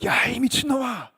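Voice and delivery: high, drawn-out strained cry; hammed-up yell of accusation; outraged shout. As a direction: act out a furious outburst, stretching it out. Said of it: "그걸 넘어섰어요".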